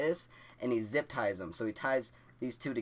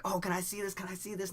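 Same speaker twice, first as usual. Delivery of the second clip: much higher, eager mock kid voices; 9 semitones higher than usual. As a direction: beg to watch like nosy classmates. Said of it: "the class like".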